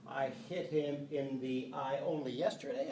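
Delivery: "only" before "yesterday" stressed, falling. Shown as a demonstration. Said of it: "When I insert this word "only".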